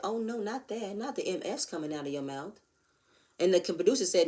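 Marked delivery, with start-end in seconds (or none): 0.0-2.6 mock shocked reaction. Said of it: "I said".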